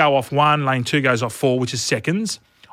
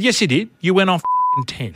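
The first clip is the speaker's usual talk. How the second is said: retold anger; 6 semitones higher than usual. Retold confrontation with cheater.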